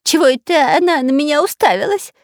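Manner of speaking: high whining question; whimpering. A narrator's reading. Spy whimpering at a staring cobra. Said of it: "захныкал шпион".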